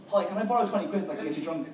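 a quick Irish line in his own brogue; Irish accent. Acted. Comedian giving the Irish chat-up line to the women, fast Irish accent. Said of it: "an Irish chat up line now".

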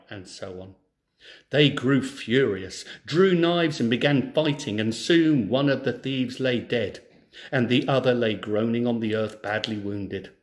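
clear, lively storybook reading; story narration. Acted. Teacher reads a folk tale to schoolchildren, storybook narration. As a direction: read the tale to a class of children.

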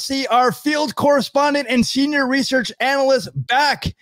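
host introduction. Real, not acted. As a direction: present your co-host to the audience.

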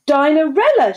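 high, loud summons; commanding call. A narrator's reading. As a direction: call her out with authority. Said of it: "she directed".

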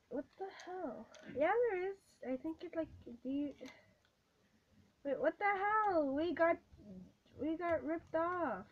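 loud, high, stunned protest; can't believe we got cheated; outraged disbelief. Real, not acted. Finds empty candy pack.

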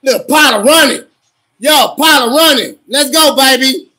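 loud fan calling the run; excited cheering. Real, not acted. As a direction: urge the runner on, loudly. Cheering a running play.

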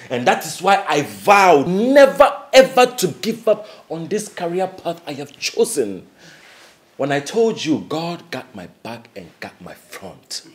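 eager and pumped up; full of triumphant excitement; excited. Acted. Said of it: "Why are you super excited?".

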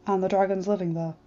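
lightly voiced dragon, grave and formal; a hint of a humble old dragon awaiting judgment; solemn dragon voice. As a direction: Nightmare dragon bowing before the alpha, lightly voiced and grave. Nightmare explains civility laws.

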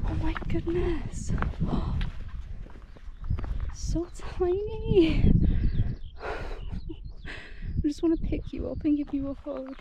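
soft, high cooing to tiny deer; cooing to animals. Real, not acted. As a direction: coo over them like babies.

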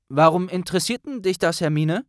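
a fast, sweaty, chatty Neville. Acted. Neville-Figur spricht. (höhere, schnelle Neville-Stimme)

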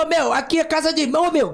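playful paulista impression; São Paulo accent imitation. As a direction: put on a paulista voice, "meu" at the ends. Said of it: "Eu tô imitando como o paulista fala".

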